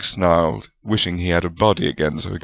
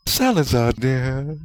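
purred; 7 semitones higher, slower than usual. A narrator's reading. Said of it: "Rowena purred".

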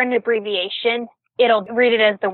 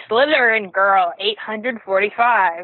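mock text-to-speech reading, slow and even; robotic reader voice; slower than usual. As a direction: read it like a dumb screen reader. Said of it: "It reads the numbers out like they're numbers".

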